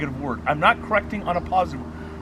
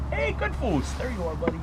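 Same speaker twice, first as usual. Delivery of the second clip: soft praise after a silent correction; light praise; 2 semitones higher, 4 dB quieter than usual. Shown as a demonstration. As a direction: praise the dog gently. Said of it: "Just tick, tick".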